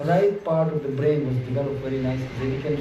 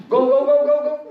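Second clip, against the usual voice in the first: mock shoo; 9 semitones higher, 7 dB louder, faster than usual. Mother shooing child away.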